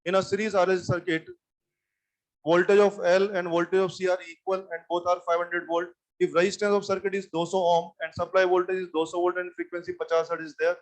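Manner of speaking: slow, word-by-word dictation for note-taking; teacher dictating slowly to the class. Shown as a demonstration. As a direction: read it out slowly so they can write. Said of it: "धीरे धीरे बोलता हूँ".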